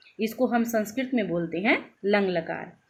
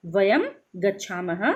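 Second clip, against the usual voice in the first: slow repeat; slower than usual. Shown as a demonstration. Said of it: "ठीक है".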